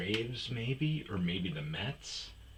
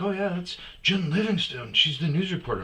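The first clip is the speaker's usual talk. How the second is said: somebody informing; 11 semitones higher, 6 dB louder than usual. Retold or imitated. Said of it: "somebody was like".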